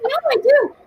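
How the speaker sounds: quoting him through high giggles; high-pitched laughing quote. Retold or imitated. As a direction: laugh while voicing his reply. Retelling guitarist's reply, laughing.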